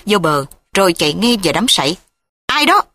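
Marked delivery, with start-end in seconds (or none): 2.4-2.8 panicked shout. A narrator's reading. Daughter crying out in fright near the reeds, panicked shout. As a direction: call out in alarm. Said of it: "Cô la hoảng".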